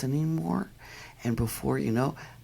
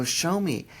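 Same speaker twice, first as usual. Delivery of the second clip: higher, coaxing ask; coaxing the dog; 6 semitones higher than usual. Retold or imitated. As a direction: invite the dog to lead you. Asking the dog to show.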